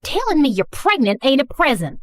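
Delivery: indignant Southern mom retort; thick Southern accent. Acted. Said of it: "speaking in a thick Southern accent".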